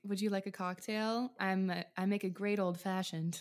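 put-on old Hollywood transatlantic lilt; glamorous old Hollywood star offering a drink; transatlantic accent. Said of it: "The transatlantic accent".

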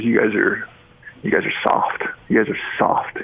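put-on whispered Italian accent, lightly done. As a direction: imitate an Italian coach, whispering. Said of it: "in his Italian accent".

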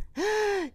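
short, high gasping gag; soft mock retch; acted gag. A narrator's reading. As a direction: pretend to gag with a quick intake. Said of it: "He covers his mouth and gags".

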